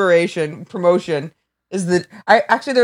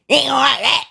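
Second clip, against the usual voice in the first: put-on Southern accent; 7 semitones higher, faster than usual. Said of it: "Not making fun of his accent".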